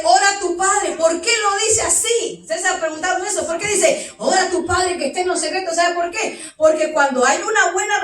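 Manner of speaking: full-force pulpit fervour; fervent preaching. Real, not acted. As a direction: preach it out strong.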